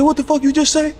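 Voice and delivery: high, loud disbelieving yell; shocked shout. Retold or imitated. Friend at a party hearing the news, shocked yell. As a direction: blurt it out in total shock.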